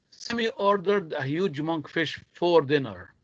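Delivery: "huge" given the sentence stress. Shown as a demonstration. Teacher reading to show stressed words, stress on "huge". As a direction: lean on the adjective "huge". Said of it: "I'm stressing on the adjective here".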